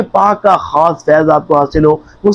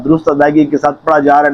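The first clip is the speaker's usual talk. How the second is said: rushed; 2 semitones lower, faster than usual. Shown as a demonstration. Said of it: "یہ تیزی کے ساتھ پڑھ رہا ہے".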